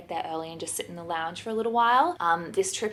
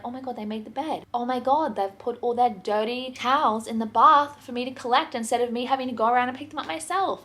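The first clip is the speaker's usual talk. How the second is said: higher, lightly voiced pleased surprise; lightly imagine being a grateful housekeeper; delighted housekeeper; 4 semitones higher than usual. Imagined housekeeper finding the bed made, lightly delighted. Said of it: "come into a hotel room as a housekeeper".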